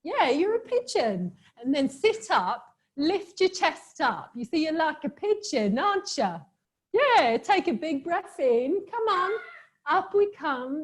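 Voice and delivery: playful London accent, pitched a little up; lively mock-London lilt. Shown as a demonstration. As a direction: teach the move in a put-on London accent. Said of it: "I do love the London accent".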